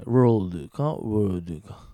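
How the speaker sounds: slow "world" with l against "word" without; contrast WORLD and WORD. Shown as a demonstration. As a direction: draw out "world" and "word" to show the difference. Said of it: "ベロが一回くるっと巻いてる".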